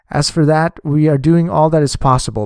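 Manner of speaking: usual speaking voice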